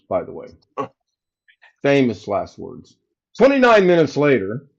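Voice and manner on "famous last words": Famous last words drawn out slowly and lower; slow, knowing repeat. Shown as a demonstration. Repeating the tech's promise to the stream, slow and wry. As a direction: let it sink in, slowly.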